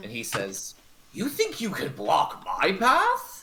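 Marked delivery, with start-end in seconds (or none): 1.1-3.4 wavering frog-creature voice, drifting in and out, pitched up. Voicing a creature challenging a player, in and out of bullywog voice. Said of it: "he's going in and out of the bullywog voice".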